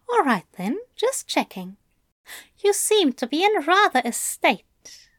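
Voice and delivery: lightly voiced, fond angel; Aziraphale. Angel reassured by bound Crowley, lightly teasing. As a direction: ease from checking into mild teasing. Aziraphale checks, then teases.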